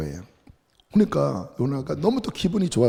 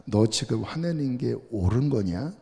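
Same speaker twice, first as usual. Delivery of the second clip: kindly God; 4 dB quieter than usual. Retold or imitated. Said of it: "인자하게 말씀하십니다".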